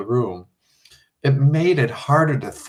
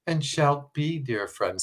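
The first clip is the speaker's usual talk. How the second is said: put-on soft, soothing, like humoring a child; calm her down gently as a child; 3 semitones higher, 6 dB quieter, slower than usual. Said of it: "in a soothing voice".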